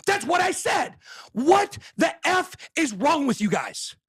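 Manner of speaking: high, slow fed-up yell; high-pitched exasperated yelling; exasperated shout. Real, not acted. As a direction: let the frustration boil over. Exasperated rant at viewers.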